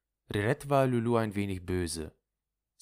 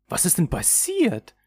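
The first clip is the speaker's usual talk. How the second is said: high, louder, urgent question; startled question; 11 semitones higher, 6 dB louder than usual. Acted. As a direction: ask with sudden raised concern. Friend asks in alarm. (erschrocken nachfragend)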